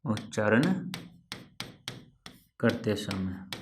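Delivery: slow, word by word, for writing down; dictating the rule slowly; slow dictation. Shown as a demonstration. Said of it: "तो क्या कहा मैंने?".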